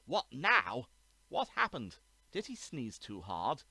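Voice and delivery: loud and high, booming across the hall. Acted. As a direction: fill the courtroom with it. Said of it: "a voice that could fill the Court of Appeal".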